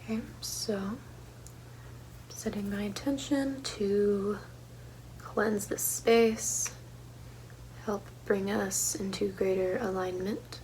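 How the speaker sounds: soft, slow intention-setting; ASMR style. Real, not acted. Host setting an intention to cleanse the space, ASMR style. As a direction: set the intention slowly and softly. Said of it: "A S M R style".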